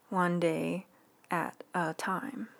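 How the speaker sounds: "One" lifted and held, then "at a time" slowed right down; stress on One. Real, not acted. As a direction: lean on "One", then draw out "at a time" slowly.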